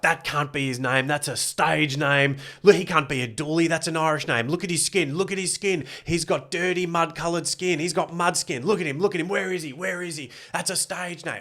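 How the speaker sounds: racist heckler woman. Retold or imitated. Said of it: "She's like".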